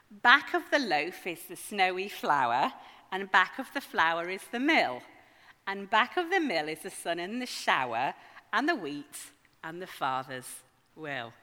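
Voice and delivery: measured, emphatic reading of a rhyme; verse recitation. Acted. Preacher quoting a verse to the congregation, recited emphatically. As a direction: recite the verse with firm beats.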